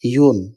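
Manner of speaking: "ইয়ন" opening on a clear y glide; demonstrated ya sound. Shown as a demonstration. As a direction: contrast "ইয়ন" by sounding the y distinctly. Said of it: "আর এটা".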